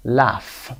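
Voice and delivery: "laugh" said alone with a clear final F; AUGH as AFF. Shown as a demonstration. Teacher repeats the word after explaining, clear final F. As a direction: model "laugh" so the F is heard. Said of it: "ف گرفته مثل اف".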